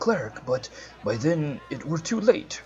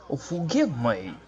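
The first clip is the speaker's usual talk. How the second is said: put-on accidental Australian accent. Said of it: "Oh, that was Australian".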